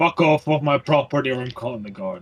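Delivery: gruff, deep masculine voice. A voice answers at the opened door, in a gruff manly voice. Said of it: "it sounds like a gruffly manly voice".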